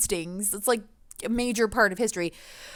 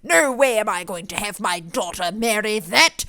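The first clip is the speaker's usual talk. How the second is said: stern father; 4 dB louder than usual. Retold or imitated. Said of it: "her father ... just thinks".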